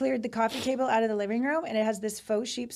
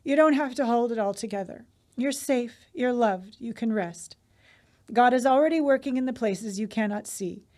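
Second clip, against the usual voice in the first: soothing bedtime read-aloud. Real, not acted. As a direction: read it like a blessing that settles someone to sleep. Reads aloud a soothing bedtime message.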